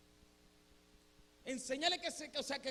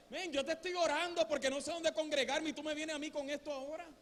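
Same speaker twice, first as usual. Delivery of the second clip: higher, mildly exasperated complaint; a little angry; 4 semitones higher, 4 dB louder than usual. Retold or imitated. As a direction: complain to God in retold annoyance. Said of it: "estaba un poco enojado". (queja un poco enojada)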